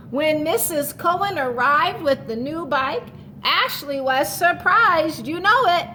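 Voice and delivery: storybook read-aloud to the class; reading to children. A narrator's reading. Teacher reading a picture book to her class, storytelling voice.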